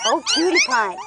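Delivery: high squeaky coo. Real, not acted. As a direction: coo it like to a puppy. Cooing over puppies.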